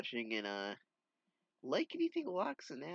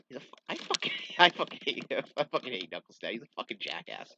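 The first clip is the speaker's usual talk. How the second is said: laughing rant; 5 dB louder, faster than usual. Real, not acted. Reader cracks up ranting at character.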